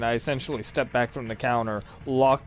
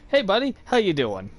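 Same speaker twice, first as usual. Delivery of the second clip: bright, higher and louder friendly hello, imitating sister; bubbly polite greeting; 7 semitones higher, 5 dB louder than usual. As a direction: greet him like a cheerful old friend. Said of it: "she greets everybody very politely and bubbly".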